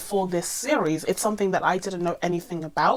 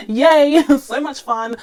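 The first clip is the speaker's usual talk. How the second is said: sarcastic yay; 7 semitones higher, 10 dB louder, slower than usual. Real, not acted. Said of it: "I've been losing my voice".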